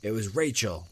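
measured horror storytelling, falling away at sentence ends; story narration. A narrator's reading. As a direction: read a grim ghost tale aloud.

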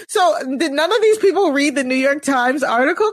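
can't believe nobody read the article, laughing; laughing disbelief. Real, not acted. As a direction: laugh through the question in disbelief.

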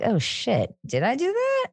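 high-pitched imitated innocence; exaggerated oops question, voice shooting up; mock dismay. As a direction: act out a startled, squeaky realization. Retold startled reply to accusation.

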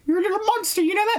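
high, scolding maid voice; exasperated maid. Retold or imitated. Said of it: "she's like".

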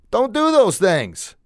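loud, high, drawn-out warning; emphatic admonition. Real, not acted. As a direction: stretch each word out, firmly. Emphatic warning after acted insults.

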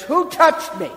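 loud, high call into the crowd; startled call out. Acted. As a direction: demand to know who touched him. Jesus turns around in crowd.

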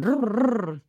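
long rolled-R engine noise; sustained motor-like tongue trill; car engine trill. Shown as a demonstration. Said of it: "like a car going".

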